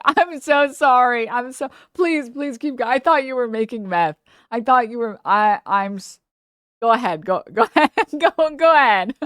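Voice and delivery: imitating an embarrassed lady giggling through it; laughing apology. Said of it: "the lady starts laughing".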